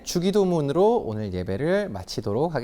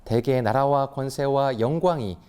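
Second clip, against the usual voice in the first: prayer recitation; 3 semitones lower than usual. Real, not acted. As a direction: recite it reverently, evenly. (엄숙한 주기도문 낭송)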